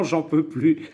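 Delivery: laughing through the words; worn-out laugh while talking. Real, not acted. Exhausted after long filming.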